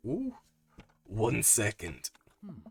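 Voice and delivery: ordinary delivery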